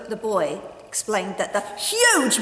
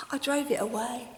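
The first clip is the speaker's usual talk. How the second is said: quiet boast; 5 dB quieter than usual. Acted. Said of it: "he said".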